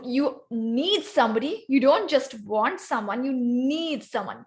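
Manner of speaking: NEED leaned on against want; stress on need. Shown as a demonstration. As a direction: hold NEED a little longer to mark it. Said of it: "you key the word".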